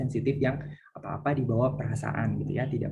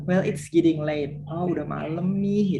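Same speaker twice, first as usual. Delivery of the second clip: mock leaving excuse; 5 semitones higher, 3 dB louder, slower than usual. Shown as a demonstration. Teacher acts out leaving excuse.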